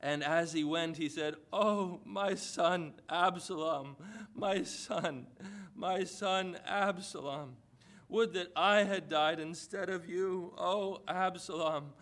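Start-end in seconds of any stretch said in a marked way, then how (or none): 1.5-11.9 slow, mournful cry of a grieving father; a touch of weeping, slow and higher; grieving lament. Acted. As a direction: draw it out as a father mourning his son. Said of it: "and wept".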